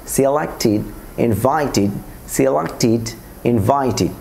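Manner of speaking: "সিলেক্টেড" as "silak-tid", "ইনভাইটেড" as "invai-tid"; corrected "-tid" ending. Shown as a demonstration. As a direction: end "সিলেক্টেড" and "ইনভাইটেড" with i, not e. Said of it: "টিডে পরিণত করব".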